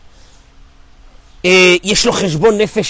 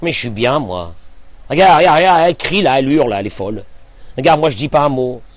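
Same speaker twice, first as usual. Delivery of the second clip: smug husband; 5 semitones lower than usual. Acted. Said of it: "D'un seul coup, il se dit".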